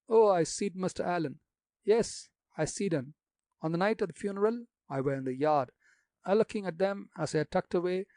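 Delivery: put-on gossipy old gravedigger in broad country dialect.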